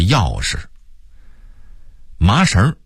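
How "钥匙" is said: 匙 in 钥匙 said light, neutral tone; 钥匙 with weak toneless second syllable; Beijing neutral shi. Shown as a demonstration. 北京人把匙念轻声. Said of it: "北京人则说成是钥匙".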